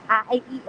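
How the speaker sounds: A, E, I stretched wide with big mouth shapes; vowel drill. Shown as a demonstration. Demonstrating again for viewers, vowels stretched wide. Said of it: "So do that".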